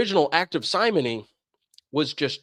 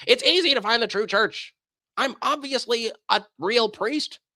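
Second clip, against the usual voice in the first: slow, higher, smug mock claim; mock priest boast; 7 semitones higher than usual. Phony priest to the seeker, smug and drawn out. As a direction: play a phony priest puffing himself up.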